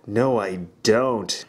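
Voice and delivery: expressive no. Shown as a demonstration. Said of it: "Show it with your facial expression".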